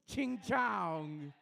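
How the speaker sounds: crude mock Asian accent, lightly done; a clumsy put-on Asian accent, half-laughing.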